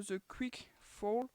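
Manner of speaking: slow English title in a French accent; real French accent on English words. Real, not acted. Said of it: "accent anglais est toujours aussi beau".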